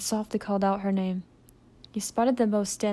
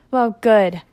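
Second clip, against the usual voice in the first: gloating; 10 dB louder than usual. Acted. Barb gloats over killing employee.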